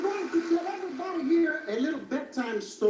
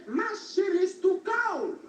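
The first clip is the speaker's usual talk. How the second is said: high whiny mama bear; 6 semitones higher than usual. Acted. Comedian voicing mama bear, higher.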